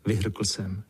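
plain reading voice

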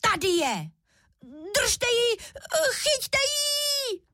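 rising to a very high, crying cub yell; squeaky shout. A narrator's reading. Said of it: "začal svým tenkým hláskem křičet".

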